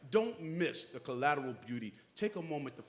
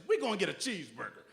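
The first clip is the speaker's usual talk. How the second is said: cheerful promise; 6 semitones higher than usual. Retold or imitated. Grandfather promises granddaughter cheeseburger.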